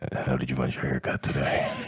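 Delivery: airy, breathy tone. Joking about a shop's after-hours service in a put-on breathy voice. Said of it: "I like the breathiness you added".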